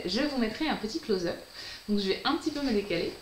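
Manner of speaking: ordinary talk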